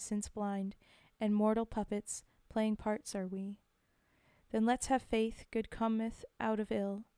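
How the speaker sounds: measured, evenly phrased verse reading; formal poetry reading; poem recital. Acted. Reads a poem aloud.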